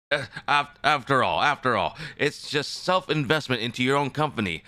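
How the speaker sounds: high flustered protest. Acted. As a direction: protest your innocence, flustered. In-character denial to chat.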